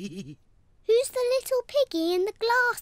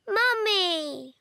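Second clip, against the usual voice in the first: crying. Acted. Child crying for mummy.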